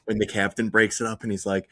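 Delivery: usual speaking voice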